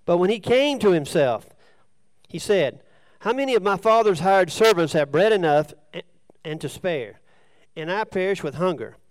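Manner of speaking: measured Bible reading in phrases; scripture reading. Acted. Preacher reads of the son returning to his father, measured scripture reading. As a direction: read the parable out clearly to the room. Reads the parable aloud to congregation.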